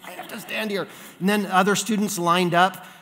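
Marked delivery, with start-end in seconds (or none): 0.0-0.9 hushed, high secret answer; soft acted stage whisper; imitated mouthed reply. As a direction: answer a classmate under your breath. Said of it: "mouth to me".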